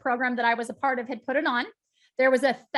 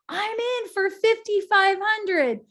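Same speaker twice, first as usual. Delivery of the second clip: much higher, slow and louder, a bright pledge from the front; woman pledging; 8 semitones higher, 4 dB louder, slower than usual. Retold or imitated.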